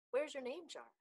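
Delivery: startled storybook question; urgent question. A narrator's reading. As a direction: ask it as soon as you notice. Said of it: "Ralph asked as soon as he saw".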